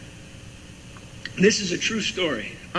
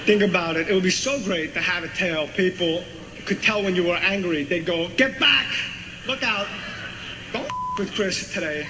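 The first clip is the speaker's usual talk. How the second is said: Walken impression. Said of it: "Walken goes".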